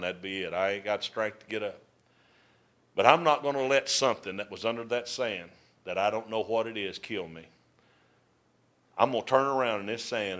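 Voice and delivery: barely able to speak, sand in his mouth; a hint of a broken, exhausted wanderer; weary dying man.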